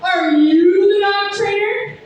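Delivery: slow, loud, pointed question; demanding Karen. Retold or imitated. Karen confronting the dog trainer, slow and loud. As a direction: lean on each word like an entitled customer. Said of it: "she's like".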